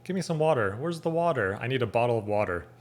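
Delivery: WATER as "wadder" in everyday phrases; casual American D in WATER. Shown as a demonstration. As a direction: say WATER with a D and a full R. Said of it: "how we say it here with, like, a D".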